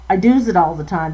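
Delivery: lilting Newfoundland outport dialect; I does it all the time in a light Newfoundland lilt. Shown as a demonstration. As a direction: say it like a Newfoundland girl would. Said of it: "I should say it like".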